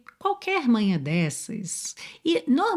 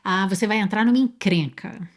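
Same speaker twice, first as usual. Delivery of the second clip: warning. Retold or imitated. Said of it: "você fala assim".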